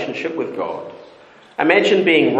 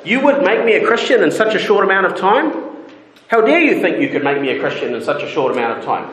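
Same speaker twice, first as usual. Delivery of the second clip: higher, indignant disbelief on the first line; incredulous question; 5 semitones higher, faster than usual. Retold or imitated. Preacher voicing Agrippa rebuffing Paul, incredulous and indignant. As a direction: scoff at being rushed into faith. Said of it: "asking a question like the E S V interprets it".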